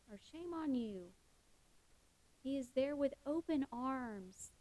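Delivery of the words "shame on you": lighter mock scold. Imagined God repeating the shame, a softer mock scold. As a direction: let the reproach drop quietly. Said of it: "pointing the finger at us saying".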